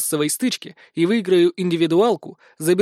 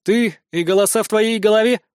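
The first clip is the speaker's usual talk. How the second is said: mocking; 4 semitones higher, 3 dB louder than usual. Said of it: "насмешливо поинтересовался".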